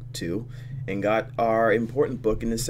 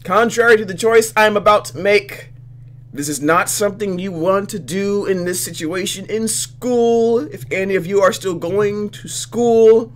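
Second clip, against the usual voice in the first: mock advisory; 10 semitones higher, 9 dB louder than usual. Real, not acted. Player gives mock public advisory.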